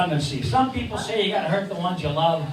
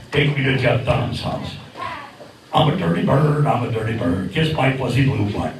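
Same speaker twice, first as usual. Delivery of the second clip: puppet bird voice; 8 semitones lower than usual. Acted.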